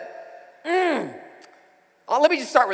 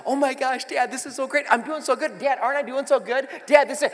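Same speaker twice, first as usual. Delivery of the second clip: put-on higher, gushing teen voice; excited daughter; 5 semitones higher than usual. Daughter bragging to her dad while driving, higher and giddy. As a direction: brag to dad, giddy and proud. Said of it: "she'll be like".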